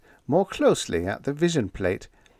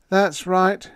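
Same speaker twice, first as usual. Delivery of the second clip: hollowly; 10 semitones higher, 6 dB louder than usual. A narrator's reading. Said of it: "he said hollowly".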